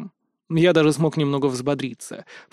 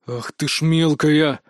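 angry growl; slower than usual. Acted. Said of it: "злобно прорычал я".

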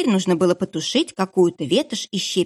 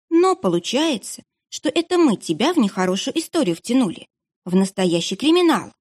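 apologetic, higher pitch; guilty; 5 semitones higher than usual. Acted. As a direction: confess it guiltily. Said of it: "виновато заговорила Анна".

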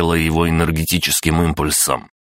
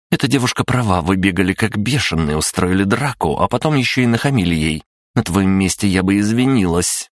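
строго, с упрёком, выше обычного; отчитывает наглеца; рассерженная девушка, отчитывает; 4 semitones higher than usual. Acted. Кристина отчитывает обидчика. (гневная отповедь девушки)

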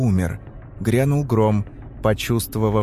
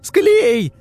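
high, loud screaming demand; shrieking yell; 7 dB louder than usual. A narrator's reading. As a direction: scream it at the assistant. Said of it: "заорал Петенька". (истошный крик)

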